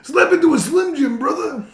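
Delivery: high, shouting wrestler bellow, laughing through it; Randy Savage impression. A Randy Savage-style mom sending her son off, hammed-up shout. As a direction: ham it up like a wrestling promo. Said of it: "And Randy Savage is your mom".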